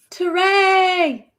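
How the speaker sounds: high happy call of a name; bright shout-out to a chat friend; excited greeting. Real, not acted. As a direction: greet him like a friend arriving.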